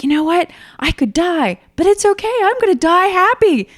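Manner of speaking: high, loud joyous declaration; ecstatic. Retold or imitated. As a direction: cry out in the thrill of the descent. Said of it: "I was like".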